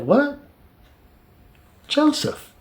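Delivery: high, hushed-off stunned "what"; stunned disbelief. Retold or imitated. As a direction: gasp out his name in disbelief. Brothers stunned at reveal.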